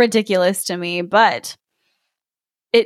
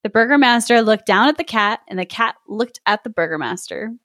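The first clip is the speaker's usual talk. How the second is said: story narration. A narrator's reading. S0 reads fairy tale aloud.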